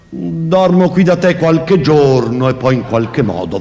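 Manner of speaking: high, thin, slow and eerily calm; calm high voice announcing she'll stay. Acted. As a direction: say it with frightening calm in a tiny voice. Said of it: "con una tranquillità spaventosa".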